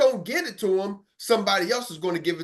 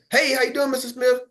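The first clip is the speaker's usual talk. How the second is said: cold call greeting; 6 semitones higher than usual. Retold or imitated. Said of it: "some of y'all can go like this".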